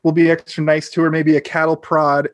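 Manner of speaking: fake-kind stepmother planning how to handle Blossom; overly nice, seething. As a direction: sound nice while seething underneath. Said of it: "Carol's basically like".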